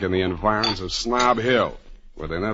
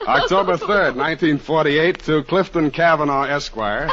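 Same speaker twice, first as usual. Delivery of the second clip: laughing; 6 semitones higher than usual. Real, not acted. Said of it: "Alan should have such an audience".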